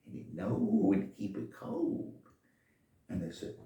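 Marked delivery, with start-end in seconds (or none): 0.1-2.2 put-on much higher, slower boyish voice; piping little boy explaining. Shoe shine boy explains the thermos, high and slow.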